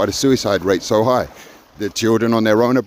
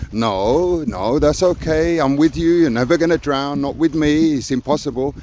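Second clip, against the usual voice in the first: raised, slowed soothing reassurance; reassuring mentor; 4 semitones higher than usual. Retold or imitated. Mentor soothing a panicking swimmer in the sea, gentle reassurance.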